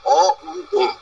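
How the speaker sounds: অ, উ, ওম said as separate sounds; sounds spelled out. Shown as a demonstration. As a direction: spell out অ, উ, then ওম. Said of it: "তিনটের একটা নির্দিষ্ট তাৎপর্য আছে". (অ, উ, ম আলাদা করে উচ্চারণ)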